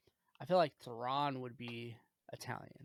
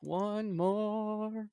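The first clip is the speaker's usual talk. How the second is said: higher, louder theatrical announcement; dramatic voice; 7 semitones higher, 4 dB louder than usual. Pretend. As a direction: announce it like a trailer voice. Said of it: "That was good".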